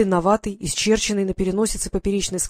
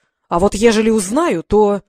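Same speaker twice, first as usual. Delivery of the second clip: menacing; 5 dB louder than usual. Acted.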